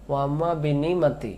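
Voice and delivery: নিমাতি said with ayn dropped; wrong quick reading. Shown as a demonstration. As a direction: rush বি নিমাতি without the throat sound. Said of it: "আমরা অনেকে বলি".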